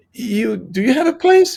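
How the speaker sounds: mock astonished landlord; incredulous. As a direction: sound amazed at the naivety. Landlord incredulous at his plan.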